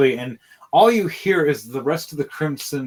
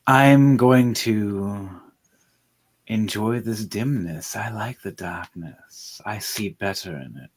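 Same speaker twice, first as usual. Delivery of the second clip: queen relishing the dark; slower than usual. Acted. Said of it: "she smiles and shrugs".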